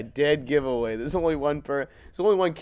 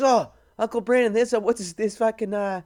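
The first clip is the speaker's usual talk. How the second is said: imitating nephew; 8 semitones higher, 5 dB louder than usual. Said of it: "He goes".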